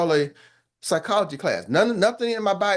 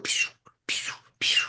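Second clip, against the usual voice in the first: whispered pew pew blaster noises; soft unvoiced pew sound effects; mock laser sound; 5 dB quieter, slower than usual. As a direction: fire off little whispered zaps like a shield. Shield deflecting compliments sound.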